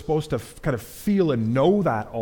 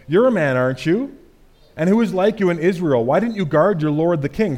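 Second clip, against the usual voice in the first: loud, raised rebuke; David scolding Abner from afar, loud and raised; rebuking call; 3 semitones higher, 4 dB louder than usual. Acted. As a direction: shout the rebuke across.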